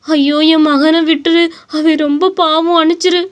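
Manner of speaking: desperate plea. Acted. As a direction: plead with the beast for her son. Mother pleads with gorilla.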